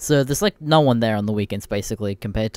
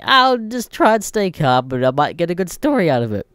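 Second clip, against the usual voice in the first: inner thought; 6 semitones higher, 4 dB louder than usual. Retold or imitated. Retelling his thought to stay calm but get a story. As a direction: voice his nervous self-talk lightly.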